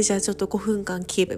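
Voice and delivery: quick, giggling through the words; laughing. Retold or imitated. Quoting boyfriend's yoga order while laughing. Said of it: "手をこう上げて".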